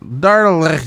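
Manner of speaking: bad French accent. Shown as a demonstration. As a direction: have a clumsy go at a French accent. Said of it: "That is not French accent at all".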